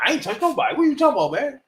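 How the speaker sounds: high, lightly voiced innocent protest; mock denial. Suspect denying it to the detective, mock innocent. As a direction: play dumb, whiny and high. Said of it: "He in there joint talking about".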